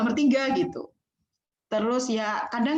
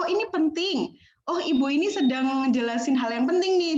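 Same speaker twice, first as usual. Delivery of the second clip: students noting something important, slightly raised tone; nada agak tinggi; 3 semitones higher than usual. Acted. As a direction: lift the pitch to flag importance, starting high. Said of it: "suara nadanya agak tinggi gitu". (nada agak tinggi, menandai hal penting)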